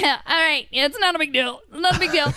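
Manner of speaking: high, tight, pretending it's fine; forced brave face. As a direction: fake being okay. Keeping a straight face.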